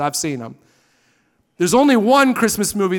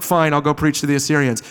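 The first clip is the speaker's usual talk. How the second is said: grudging Jonah; 5 semitones lower, faster than usual. Retold or imitated. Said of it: "he's like".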